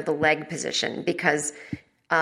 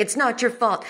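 Goodwill Hunting line; 5 semitones higher than usual. Retold or imitated. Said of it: "It was like Goodwill Hunting".

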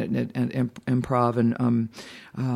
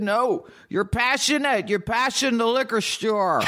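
insistent punchline; 10 semitones higher than usual. A narrator's reading. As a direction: push the punchline through a laugh. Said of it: "a little more insistent this time".

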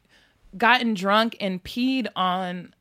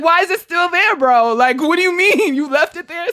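retold disbelief; 7 semitones higher, 6 dB louder than usual. Retells shocked reply to boyfriend.

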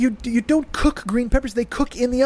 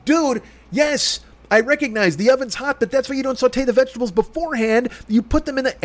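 urgent; 3 semitones higher than usual. Retold or imitated. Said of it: "I'm yelling and I got bass in my voice".

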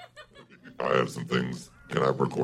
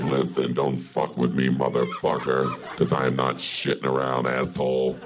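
lightly feminine, tough devil. Acted. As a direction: sound feminine but tough. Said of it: "feminine and tough".

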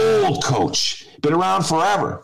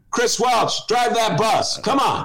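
excited cheering; 5 semitones higher, slower than usual. Real, not acted. Cheering Chris Welch on.

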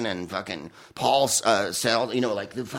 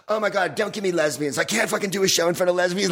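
mock Joan rant; 6 semitones higher than usual. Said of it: "She'd turn on the crowd".

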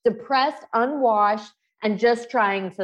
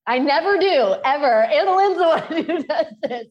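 higher, louder, tearful laugh through the words; teary laughing; 7 semitones higher, 5 dB louder than usual. Real, not acted. Guest getting emotional on the podcast, teary laugh. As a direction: laugh off tears that are welling up. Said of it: "I'm getting all teary now".

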